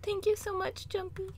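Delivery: high, soft trembling voice; trembling whisper. Acted. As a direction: thank him in a tiny shaky voice. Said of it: "her trembling voice".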